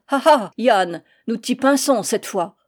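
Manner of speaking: moquerie criée, plus forte; voix goguenarde. Acted. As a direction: railler le fraudeur pris au piège. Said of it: "d'une voix goguenarde". (un douanier raille Yann, goguenard)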